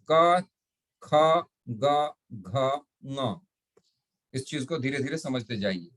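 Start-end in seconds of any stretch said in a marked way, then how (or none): 0.1-3.4 "का, ख, ग, घ, ङ" said one by one, each letter set apart; teacher reciting letters. Shown as a demonstration. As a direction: recite the velar row for the class. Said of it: "कौन कौन?".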